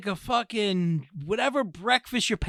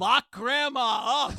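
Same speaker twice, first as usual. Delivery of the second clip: laughing mock shout; 3 semitones higher, slower than usual. Joking shout about grandma.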